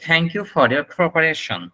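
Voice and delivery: slow, careful teacher demo; slowly and clearly spoken; slow model sentence. Shown as a demonstration. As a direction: say it slowly so students copy. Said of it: "তখন আপনি যেটা বলবেন".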